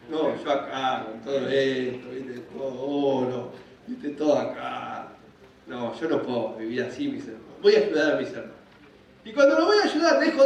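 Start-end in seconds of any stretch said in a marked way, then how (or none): 0.1-8.5 low, subdued brooding voice; mock guilt. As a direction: mull it over low, as if burdened. Acts Moses' guilty pangs in palace.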